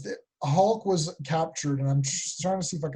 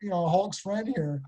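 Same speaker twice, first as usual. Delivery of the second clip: fast and higher, laughing through the words; laughing doubt; 4 semitones higher, faster than usual. Retold or imitated. Kid imagining being Hulk's friend, laughing nervously. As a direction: giggle as you back out of it. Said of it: "then you're like".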